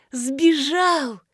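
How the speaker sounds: bright, excited exclamation; gleeful. A narrator's reading. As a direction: she is thrilled he ran off. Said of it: "обрадовалась Марина". (радостно воскликнула)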